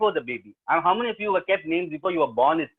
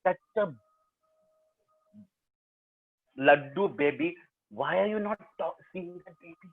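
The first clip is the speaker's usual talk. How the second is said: cooing nurse; 3 dB quieter than usual. Retold or imitated. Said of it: "I'm just going".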